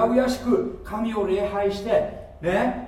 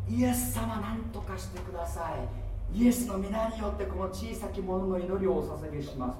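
softer, timid petition to a faraway Jesus; mock pious prayer; 5 dB quieter than usual. Preacher mimics believers praying to an outside God, soft mock prayer. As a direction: pray humbly to someone outside you. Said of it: "外にリクエストしてる".

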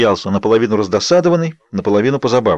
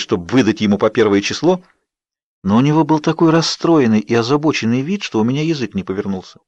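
ordinary delivery, nothing marked

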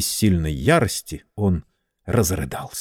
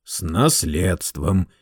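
slow, patient repetition; a slow, calm, patient restatement; patient repeat; much slower than usual. Acted. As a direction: spell it out patiently, very slowly. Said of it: "терпеливо повторил".

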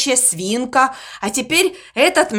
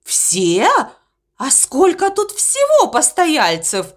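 horrified; 3 semitones higher, slower than usual. Acted. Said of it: "с ужасом спросил Мопси".

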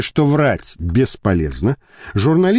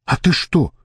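indignant retort, pitched up; 6 semitones higher than usual. A narrator's reading. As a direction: throw the question back in protest. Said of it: "возмутился Жорик". (возмущённо)

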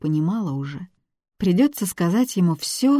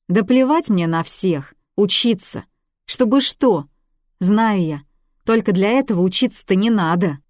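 put-on louder, indignant girl; a teen snapping back at the man who lectures her; heated outburst; 3 semitones higher, 5 dB louder than usual. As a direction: throw it back at him, hot and defiant. Танька heatedly defends herself.

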